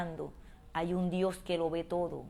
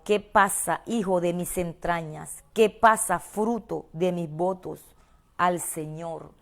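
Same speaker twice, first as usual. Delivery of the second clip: impassioned lament; 5 dB louder than usual. Acted. Mother lamenting to King Lemuel, loud and pleading.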